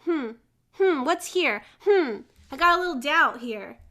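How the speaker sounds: lightly voiced pondering detective; suspicious detective. Detective sniffing out doubt, playfully suspicious. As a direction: mull it over like a sleuth. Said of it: "go to the detective".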